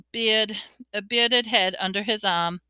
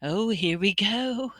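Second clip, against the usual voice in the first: slow, weary bitterness; bitter; 3 dB quieter than usual. A narrator's reading. Ghost host seeing rivals arrive, bitter. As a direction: grumble it slowly and resentfully. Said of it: "said Nearly Headless Nick bitterly".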